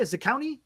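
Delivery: "Zacconi" softly as za-COW-nee, rising; questioning pronunciation. Real, not acted. Host checking a player's name, questioning pronunciation. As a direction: ask "Zacconi" with an "ow" middle, quietly. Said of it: "is that how you say it?".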